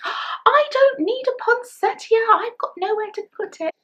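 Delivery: high, loud imitation of mum objecting; mock protest. Retold mum protesting at a gift.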